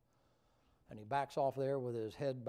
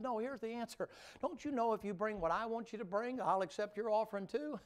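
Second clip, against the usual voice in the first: the Lord explaining; 8 semitones higher than usual. Acted. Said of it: "He said".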